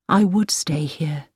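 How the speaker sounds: slow unvoiced whisper. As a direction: breathe the words, barely voiced.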